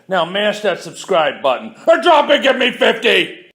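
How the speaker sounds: loud, high drill sergeant bark; barking gym coach. Acted. Channel intro drill-sergeant bark.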